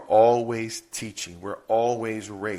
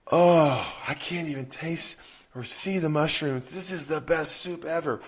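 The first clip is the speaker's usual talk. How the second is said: put-on kid loving soup; 4 semitones higher than usual. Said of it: "They try the mushroom soup".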